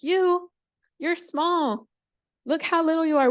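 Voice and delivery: high, loud disbelief; incredulous. Acted. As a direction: scoff in amazement at a tiny volunteer. Animals scoff at tiny spider.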